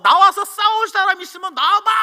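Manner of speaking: mock challenger calling out; imitating booming challenge. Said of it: "큰 소리 빵빵 칩니다".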